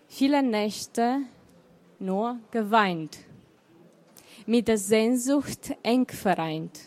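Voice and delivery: measured recital with pauses between the lines; poem recital. Acted. Poet recites her own love poem to the audience, lightly measured. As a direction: lean on each "Viele Nächte" like a refrain.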